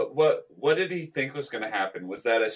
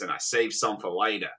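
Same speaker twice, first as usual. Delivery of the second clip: put-on Australian accent; 4 semitones lower, 4 dB quieter, faster than usual. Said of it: "Reese's commercial".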